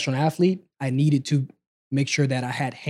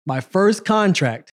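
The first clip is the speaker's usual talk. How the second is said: "first" slow and higher; stressing first; 6 semitones higher, much slower than usual. Shown as a demonstration. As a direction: repeat "My first contract" slowly with weight on "first". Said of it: "Say it again".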